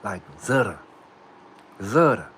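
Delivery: Zutta with a buzzing Z at the start; Z version. Shown as a demonstration. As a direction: start Zutta with a clear Z sound. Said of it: "with a Z".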